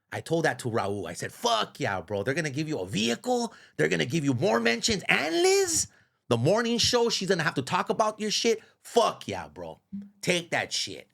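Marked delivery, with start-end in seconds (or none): 1.3-11.1 higher, revved-up retelling of his own words; hyped-up quote. Retold or imitated. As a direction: pump him up, cracking high on Liz. Retelling pep talk to Raul.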